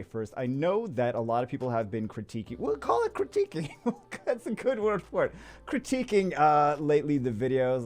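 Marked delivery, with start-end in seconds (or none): 2.6-6.4 sarcastic chuckle; laughing sarcastically. Real, not acted. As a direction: laugh it off with irony. Sarcastic about critics.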